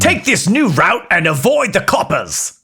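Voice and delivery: cheeky Cockney assistant; Cockney geezer voice; Cockney accent. Acted. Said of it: "a Cockney voice".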